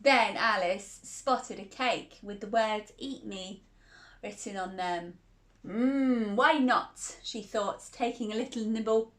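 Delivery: gentle storybook telling; reading to a child. Acted. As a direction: read it like a bedtime story.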